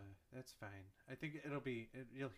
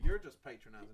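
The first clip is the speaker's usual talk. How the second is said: mock Southern camp; 5 semitones lower, 5 dB louder than usual. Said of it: "it was gay Southern".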